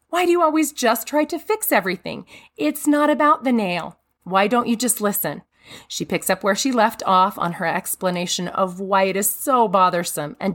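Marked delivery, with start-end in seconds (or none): 0.1-5.4 defensive. Retold or imitated. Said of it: "The woman then gets defensive".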